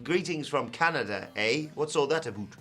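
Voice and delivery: slightly lifted comic Canadian; badly faked Canadian accent. Host retrying after being teased, hammed-up Canadian accent. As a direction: try Canadian again for laughs. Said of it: "I can't do Canadian".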